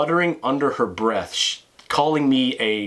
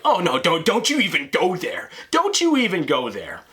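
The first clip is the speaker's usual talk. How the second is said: sassy warning woman; 5 semitones higher than usual. Retold or imitated. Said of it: "and she's like".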